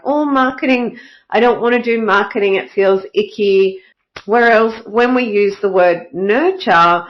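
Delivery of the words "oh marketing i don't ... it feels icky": mock reluctance.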